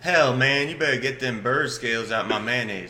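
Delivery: lightly voiced indignant samurai character; Samurai-Figur. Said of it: "how about that, that character?".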